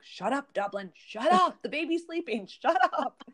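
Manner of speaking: high-pitched mock yelling; retold yelling at dog. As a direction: act out scolding the barking dog, high and exasperated. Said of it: "I yell at the poor dog".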